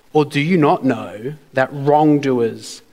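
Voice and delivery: slow, measured question leaning on WRONGDOERS; stress on wrongdoers. Shown as a demonstration. Preacher reading scripture to congregation, emphasizing wrongdoers. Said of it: "I'm gonna emphasize the word wrong".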